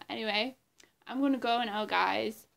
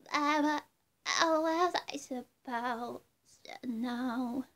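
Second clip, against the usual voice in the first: pop star impression; 3 semitones higher, 3 dB louder than usual. A hint of a pop star signing off to fans. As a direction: gush sweetly as a pop star to her fans. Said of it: "that was my impression of Britney Spears".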